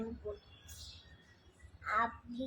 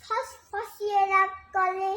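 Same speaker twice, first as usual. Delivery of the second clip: lilting, measured recital of a verse; poem recitation; 4 semitones higher, 4 dB louder than usual. Acted. Reciter performing Sukumar Ray's poem for listeners, lilting recitation. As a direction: recite line by line, pausing between phrases, questions sung out.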